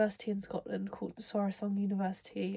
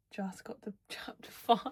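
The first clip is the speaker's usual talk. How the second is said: whispering. Real, not acted. Late night, laughing to herself.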